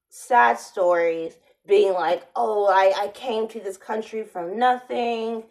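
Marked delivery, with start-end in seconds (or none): 2.3-5.4 half-hearted mock Spanish accent, barely shifted from her own voice; a hint of a put-on Spanish accent; fake Spanish accent. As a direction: lightly imitate a Spanish-accented job interviewer. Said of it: "trying to put on a fake Spanish accent".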